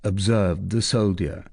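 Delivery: ordinary delivery, nothing marked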